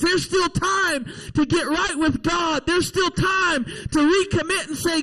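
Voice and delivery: urgent, driving sermon delivery; fervent preaching. Real, not acted. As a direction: preach it with rolling, insistent emphasis. Preacher exhorts the congregation.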